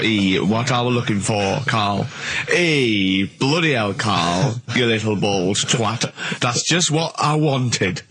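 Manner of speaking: mock grateful Yorkshire dad; faking delight at gift.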